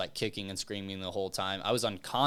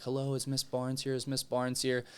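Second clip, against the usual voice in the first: calling out; 4 semitones higher than usual. Retold or imitated. Trainer calling into the stands.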